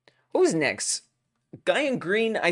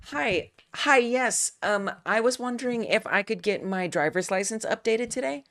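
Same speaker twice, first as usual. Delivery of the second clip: polite, slightly raised voice of someone asking a clerk for help; a light put-on of grown-up politeness; professional serious voice; 6 semitones higher than usual. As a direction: play it as a sweet, courteous customer at the counter. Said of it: "This is my professional, serious voice".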